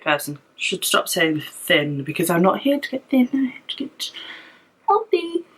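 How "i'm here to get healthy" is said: out of breath. Real, not acted. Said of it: "while I catch my breath".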